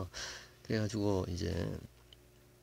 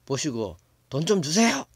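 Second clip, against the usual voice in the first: put-on higher, louder pleading child's demand; child begging father; 4 semitones higher, 6 dB louder than usual. Child demanding money from father, loud high plea. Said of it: "어, 아버지한테".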